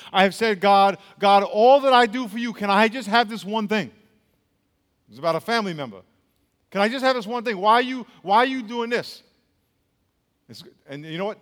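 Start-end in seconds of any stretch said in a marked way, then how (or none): 0.6-3.9 raised, aggrieved plea to God; retold anguished prayer. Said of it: "in my anger and in my pain". 6.7-9.2 higher-pitched pleading complaint; retold anguished prayer. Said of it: "in my anger and in my pain".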